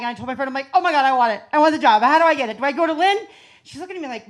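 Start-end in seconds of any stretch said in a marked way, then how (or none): 0.7-3.2 excited. Retold or imitated. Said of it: "let it out of the bag".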